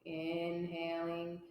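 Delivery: pace each phrase to a long inhale and exhale; guided breathing. Real, not acted. Yoga teacher leading a three-part breath for the class, calm guided breathing.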